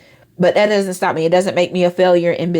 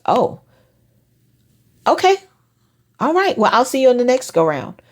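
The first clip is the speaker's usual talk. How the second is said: easygoing acceptance; 5 semitones higher than usual. Retold or imitated. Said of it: "take their no as".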